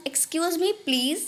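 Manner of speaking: very slow, drawn-out demo; Hindi: बहुत धीरे खींचकर; very slow model phrase. Shown as a demonstration. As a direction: stretch it out for learners. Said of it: "ये आप कब बोलेंगे".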